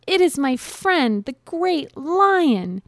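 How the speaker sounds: high little mouse voice; high-pitched storybook mouse; mouse character. A narrator's reading. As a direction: play a tiny mouse worried for a friend. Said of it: "thought the mouse".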